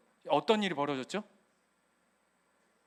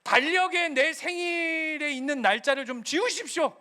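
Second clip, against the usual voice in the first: tantrum prayer; 3 semitones higher than usual. Retold or imitated. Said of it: "땡깡 피우냐면".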